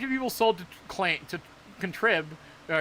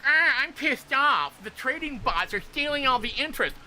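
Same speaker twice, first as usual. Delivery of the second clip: mock angry; 7 semitones higher, 4 dB louder than usual. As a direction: act pissed off, hammed up. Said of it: "if you're looking at this like".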